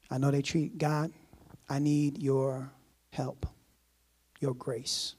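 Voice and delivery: measured prayer with reverent pauses; praying aloud. Acted. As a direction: pray earnestly, pausing between phrases. Models a prayer of forgiveness.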